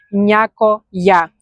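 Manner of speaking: slow, careful „някоя“; slow demo. Shown as a demonstration. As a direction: stretch out „някоя“ for learners. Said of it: "you say".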